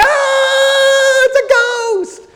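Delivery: high, slow, hammed-up scream; mock fright. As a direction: play the startled disciple. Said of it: "you're like".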